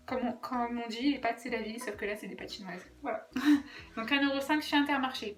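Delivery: speaking through a blocked nose; sniffly, congested voice; stuffy nose. Real, not acted. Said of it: "Pardon pour mon nez".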